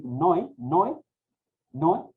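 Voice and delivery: Noé said as one syllable, noe; run as a diphthong. Shown as a demonstration. Teacher showing a mistaken reading, Noé as a diphthong. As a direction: glide o and e together in Noé. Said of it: "a veces sonaría así".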